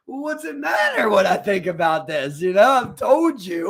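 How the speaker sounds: slow, mildly exasperated retort; drawn out, building in volume. Retold or imitated. Worker fed up with coworker asking about knots, mildly exasperated.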